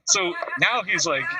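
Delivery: words squeezed out through real laughter, high and slow; laughing while telling. Real, not acted. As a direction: talk while giggling.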